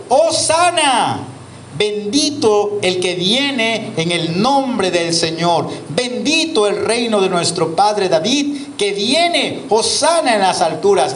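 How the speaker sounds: slow, drawn-out acclamation; solemn slow proclamation of the crowd's cry; proclaiming. Acted. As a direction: call it out like the crowd. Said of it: "daban voces diciendo".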